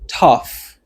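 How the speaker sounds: "tough" as TUFF, one clear falling syllable; pronunciation demo. Shown as a demonstration. Teacher pronouncing the word, "tough" said clearly. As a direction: model "tough" alone with a clear F ending. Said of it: "m ap pwononse mò an".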